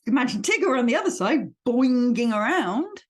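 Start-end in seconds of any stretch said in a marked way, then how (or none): 1.6-3.0 bouncy. Shown as a demonstration. Mimics Tigger's bouncing.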